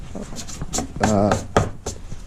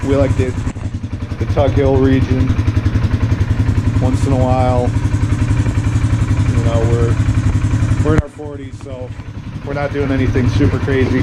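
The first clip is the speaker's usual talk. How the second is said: raised voice over the engine noise; talking over engine; 3 dB louder than usual. Real, not acted. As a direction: speak up over a running motor.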